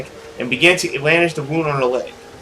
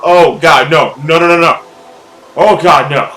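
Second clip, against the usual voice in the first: alarmed no; 8 dB louder than usual. Real, not acted. Streamer protesting the creepy turn, loud nos. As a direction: plead no at the screen.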